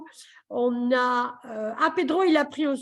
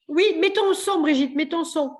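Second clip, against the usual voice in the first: raised, higher-pitched prompt; calling out; 5 semitones higher, 4 dB louder than usual. Real, not acted. Host to muted participant on a video call, calling out. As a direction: call out to someone on mute.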